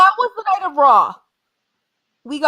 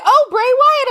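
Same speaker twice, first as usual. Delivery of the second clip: put-on Irish accent; 9 semitones higher, 5 dB louder, slower than usual. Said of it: "in that Irish voice".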